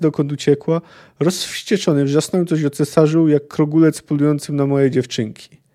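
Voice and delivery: measured audiobook narration of a prisoner's confession; story reading. A narrator's reading. Podcaster reads the book excerpt to listeners, calm narration. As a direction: read the passage like an audiobook. Reading a Witcher passage aloud.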